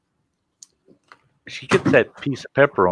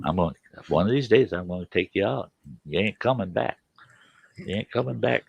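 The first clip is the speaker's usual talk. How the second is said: retold muttered threat; 6 dB quieter, faster than usual. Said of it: "and I'm like".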